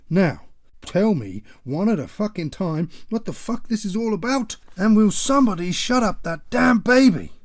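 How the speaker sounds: father furious at his squabbling family; furious demand. Acted. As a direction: roar at them to explain and hush the baby.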